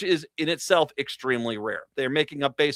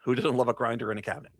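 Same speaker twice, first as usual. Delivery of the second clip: Rhode Island accent; 3 semitones lower, 4 dB quieter, faster than usual. Shown as a demonstration. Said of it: "I sometimes slip back into it".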